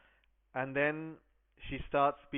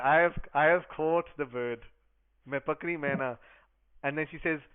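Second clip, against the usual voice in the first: louder, excited cries of I have caught it; a girl thrilled at her catch, calling out; bursting with joy; 7 dB louder than usual. Acted. Kishori ji telling Lalji her catch, loud joyful excitement.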